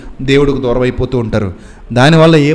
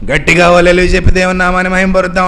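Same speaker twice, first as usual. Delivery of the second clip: mock preacher; 2 semitones higher, faster than usual. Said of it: "అంటాడు".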